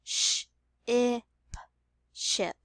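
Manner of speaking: "Sh, I, p" apart, then "ship" joined; sounding out then blending. Shown as a demonstration. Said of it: "We've built the word ship".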